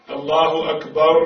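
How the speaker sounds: slow, loud الله أكبر with a held trill; doubled trilled r. Shown as a demonstration. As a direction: roll a long r at the end of أكبر, "akbarrr". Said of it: "يقرأ الراء مشددة".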